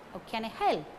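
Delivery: "can" kept unstressed, "help" carrying the stress; weak can. Shown as a demonstration. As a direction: pass lightly over "can". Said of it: "These words also do not carry stress".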